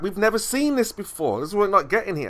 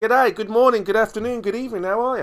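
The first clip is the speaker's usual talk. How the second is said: put-on a light Aussie accent, pitched up and cheery; playful Aussie greeting; 5 semitones higher, faster than usual. Chemo greets Davros in a mock Australian accent. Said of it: "Moose has been working on his Aussie accent".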